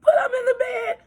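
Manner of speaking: put-on wolf feigning a sick old lady; scratchy granny voice. Wolf in bed faking grandmother's cold to Red Riding Hood. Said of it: "came a scratchy voice".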